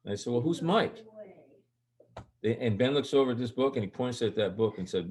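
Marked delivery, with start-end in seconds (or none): 0.3-1.0 high, probing retold question; retold puzzled question. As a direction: quiz the child, voice pitched up. Acts out asking son again.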